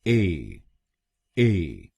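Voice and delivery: ए alone, long "ay" with silent T; isolated, falling ए with no T; syllable demo. Shown as a demonstration. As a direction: model ए as a separate syllable. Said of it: "दूसरे शब्दांश को यानी ई टी हम बोलेंगे".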